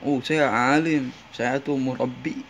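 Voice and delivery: slow, drawn-out boast of piety; lightly mimicking a self-satisfied holy man; mock self-importance. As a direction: put on a mildly pompous scholar, stretching the words.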